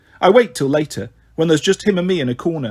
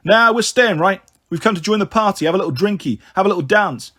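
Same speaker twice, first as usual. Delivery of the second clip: higher-pitched cocky lad muscling in; lightly voiced skinhead; 4 semitones higher than usual. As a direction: play a brash drunken gatecrasher, lightly voiced.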